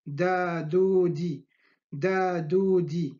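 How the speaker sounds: light Spanish-style D in دادودي; non-emphatic D. Shown as a demonstration. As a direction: say دادودي with a plain, unemphatic d. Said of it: "y no enfática, la D".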